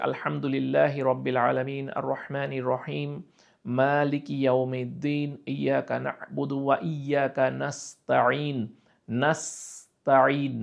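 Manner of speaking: measured Quran recitation; slow recitation. Shown as a demonstration. Teacher reciting for students, slow and deliberate. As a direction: recite slowly, word by word. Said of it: "teacher recites Fatiha".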